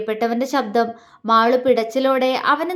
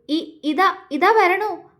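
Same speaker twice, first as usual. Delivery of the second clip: stammering call back, pitched high and nervous; trembling reply; 6 semitones higher, much slower than usual. A narrator's reading. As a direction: answer with a shaky, frightened call. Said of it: "അവൾ വിറയലോടെ വിളിച്ചു പറഞ്ഞു". (വിറയലോടെ വിളിച്ചു പറയുന്നു)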